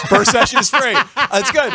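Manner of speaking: real laugh while echoing the joke. Real, not acted. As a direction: laugh the punchline back at him.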